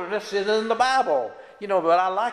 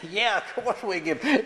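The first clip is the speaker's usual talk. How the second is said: laughing; 3 semitones higher, 3 dB quieter than usual. Real, not acted. Laughs while answering.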